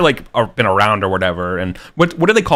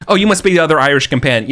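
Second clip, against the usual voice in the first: higher, louder, fast innkeeper greeting; 7 semitones higher, 5 dB louder, much faster than usual. Retold or imitated. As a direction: greet the guest quickly, pitched up. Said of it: "You're looking, you know".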